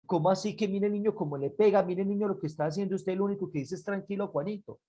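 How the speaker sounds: quick, run-on questioning; baffled neighbour. Acted. Neighbour asks patient father, quick baffled questioning. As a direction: rattle it off in bewilderment.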